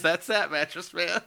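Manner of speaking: slow, lightly acted movie quote; quoting a movie line. Host showing where his phrase came from, slow mock quote. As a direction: draw the line out like the film character. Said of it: "He just says".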